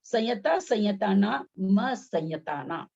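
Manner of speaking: slow, building up संयता ना into म संयता ना; teacher spelling out म संयता ना syllable by syllable; modelling म संयता ना slowly; slow model reading. Shown as a demonstration. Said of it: "यहाँ क्या हो रहा है".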